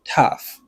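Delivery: "Tough" as TUFF, one clear syllable; pronunciation demo. Shown as a demonstration. Teacher confirming the right pronunciation, "Tough" said clearly. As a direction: model "Tough" alone with a clear F. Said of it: "this is the right pronunciation".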